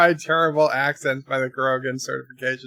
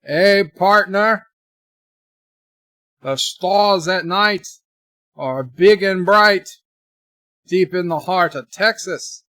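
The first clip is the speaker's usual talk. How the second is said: hammed-up Texas twang, pitched up; Texas accent; 4 semitones higher, 5 dB louder than usual. Shown as a demonstration. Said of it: "my, my Texas accent".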